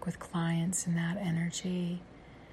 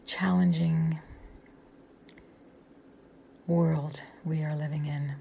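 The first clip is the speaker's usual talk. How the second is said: guided meditation; 4 dB quieter than usual. Acted. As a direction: guide them gently into the breath. Leads a breathing meditation.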